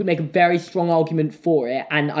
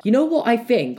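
raised teasing setup voice; mock villain setup; 7 semitones higher than usual. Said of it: "I'll go to someone like".

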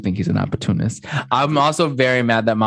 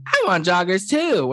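high, drawn-out camp imitation; gay, octave-up voice; 9 semitones higher, slower than usual. Mimicking her quoting the men who want joggers, high camp voice. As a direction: lift it way up and camp it, slowly. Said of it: "why did her voice get gay and go up an octave".

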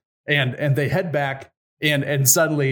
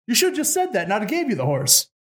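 exasperated Tsar; 8 semitones higher, faster than usual. Acted.

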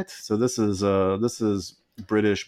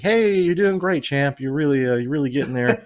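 higher, peppy fake cheer for a kid; mock encouraging coach; 5 semitones higher than usual. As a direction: cheer him on like a patronizing coach. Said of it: "and everyone's like".

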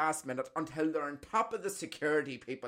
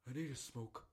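imitating granda; 7 dB quieter, faster than usual. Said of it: "he turned around and said".

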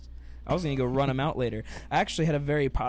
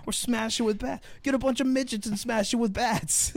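much higher, louder hammed-up host; game show host; 5 semitones higher, 5 dB louder than usual. Pretending to be the host offering grim options, loud and high. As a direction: pitch it like an over-the-top TV host. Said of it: "I think it'd be like".

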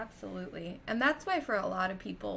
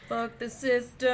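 mock rebel shout; 4 semitones higher, 6 dB louder than usual.

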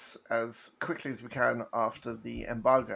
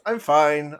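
louder gruff alien twang; Watto voice; 10 dB louder than usual. Shown as a demonstration. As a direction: try a Watto line. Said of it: "professional Watto impressions".

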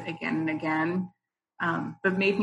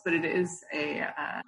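normal talking voice

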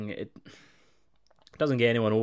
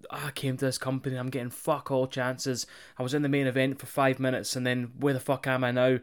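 mock pipe bomb; 4 dB quieter than usual. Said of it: "pipe bomb ... promo where he's like".

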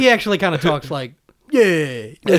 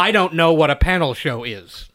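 lower-pitched fake American accent; Brit faking American; 5 semitones lower than usual. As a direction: put on a laboured American voice. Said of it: "a British person trying to do an American voice".

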